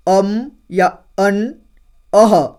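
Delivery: drawn out slowly; slow drill. Shown as a demonstration. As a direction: stretch the sounds for learners. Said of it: "तो देखिए". (धीरे-धीरे खींचकर बोलना)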